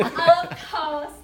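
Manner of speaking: loud, laughing farewell; cheery sign-off. Acted. Relative ending the phone call with mother, cheerily.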